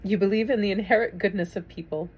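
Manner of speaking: a touch of tears in the voice; steady yourself and read on; emotional. Real, not acted. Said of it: "I told you I was gonna get emotional".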